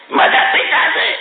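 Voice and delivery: strained, harsh mock outburst; mock scolding yell. Scolder to a man with a wounded finger, mock yelling. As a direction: imitate someone yelling in alarm at a wound. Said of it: "צועק עליו".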